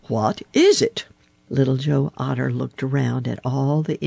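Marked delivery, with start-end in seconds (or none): 0.1-1.0 higher-pitched impatient demand; testy. A narrator's reading. Grandfather Frog pressing Little Joe for news, high testy demand. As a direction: demand the answer testily. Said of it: "replied Grandfather Frog testily".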